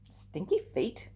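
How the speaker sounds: slow, whispered mock disbelief; mock surprise. A narrator's reading. Echoing the children's shocked question, hushed mock surprise. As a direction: pretend to be shocked and amused.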